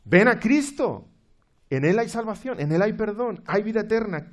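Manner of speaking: high, loud calling. Acted. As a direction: call him to climb aboard. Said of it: "que grita". (marinero que llama a gritos)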